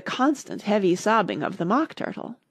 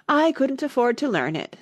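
high, regretful Mock Turtle; sighing; 7 semitones higher than usual. A narrator's reading. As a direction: sigh it out wistfully. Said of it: "with a sigh".

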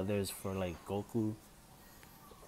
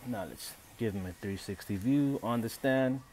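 burping; 4 dB louder than usual. Real, not acted. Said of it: "Sorry, I'm burping here".

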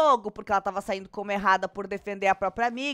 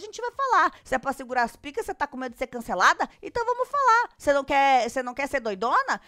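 taunting challenge. Retold or imitated. Gisele dares Luana to start talking, taunting. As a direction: egg the rival on in mock outrage.

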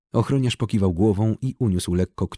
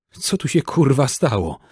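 raised, high, swearing demand; louder; 6 semitones higher, 3 dB louder than usual. A narrator's reading. Czarny demands louder what happened. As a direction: push the question louder. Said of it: "powiedział głośniej".

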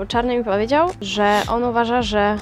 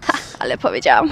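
laughing; 5 semitones lower, faster than usual. Real, not acted. Laughs at her own words.

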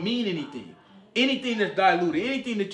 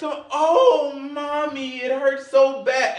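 put-on much higher, louder, slowed whimpering kid voice; whiny hurt child; 7 semitones higher, 5 dB louder, much slower than usual. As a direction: play the kid milking a small hurt. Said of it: "You be like".

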